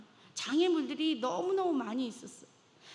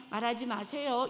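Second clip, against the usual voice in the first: usual speaking voice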